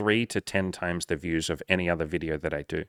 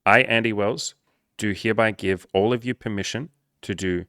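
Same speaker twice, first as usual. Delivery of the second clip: mock formal proclamation. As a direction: proclaim it like a mock-serious royal edict. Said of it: "Let's get real serious for a second".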